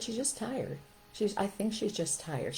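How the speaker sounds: softly voiced, slowing down; soft, understanding murmur; gentle realisation. Mother telling husband their daughter is tired, gently.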